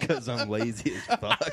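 laughing. Real, not acted. Answering amid the group laughter.

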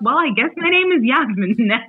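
laughing, resigned acceptance; mock shrug with a laugh; child giving up on her name. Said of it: "And then I was like".

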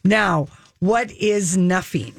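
"nuffing" with an f for the th. Shown as a demonstration. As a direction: say "nuffing", f sound in place of th. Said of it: "N U F F I N G".

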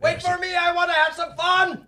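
mock squeaky call. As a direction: squeak it out like an eager little kid. Player mocks a character calling out.

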